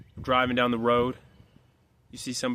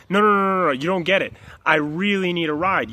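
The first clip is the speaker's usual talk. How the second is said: louder, higher acted protest; insistent pleading; 3 semitones higher, 4 dB louder than usual. Stranger protests the driver's refusal, mock pleading. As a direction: refuse to take no, acting it out.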